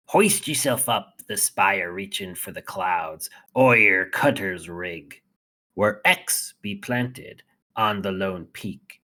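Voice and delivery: lightly voiced pirate reading. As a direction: read it like an old sea pirate. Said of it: "I'll do it in my pirate voice".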